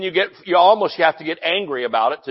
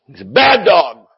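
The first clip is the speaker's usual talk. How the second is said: scolding a dog; 6 dB louder than usual. Pretend. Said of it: "You ever rebuked the dog".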